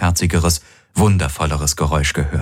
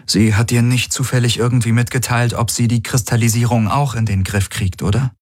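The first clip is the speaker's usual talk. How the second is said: slightly higher-pitched character voice, questioning; lightly voiced Kirai; 4 semitones higher than usual. Friend asks Garland about the Schattenhelix, lightly voiced and higher.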